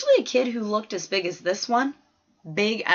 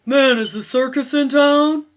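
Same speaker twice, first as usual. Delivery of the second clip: a loud jeering whisper, higher; a kid's mocking whisper louder than normal talk; loud stage whisper; 6 semitones higher, 7 dB louder than usual. A narrator's reading. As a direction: whisper meant to be heard, loud and high. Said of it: "Wayne whispered".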